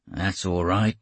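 a light Australian twang, lightly voiced; hint of a rough Australian sailor; raw Australian accent. Sailor Kane answering the narrator, light Australian accent. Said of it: "in a raw Australian accent".

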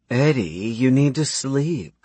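slow, lightly voiced, drowsy woman; sleepy young woman. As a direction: coax him back to bed. Mouse's character voice.

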